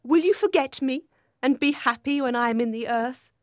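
bitter, high-voiced questioning. A narrator's reading. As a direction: reproach him with wounded bitterness. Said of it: "she said bitterly".

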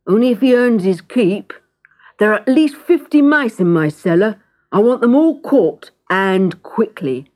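gruff baker. Acted. Baker sets the cat a job.

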